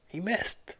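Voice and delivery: high, nasal Joker voice; Joker impression. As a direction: sneer it like the Joker. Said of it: "I was going for the Joker there".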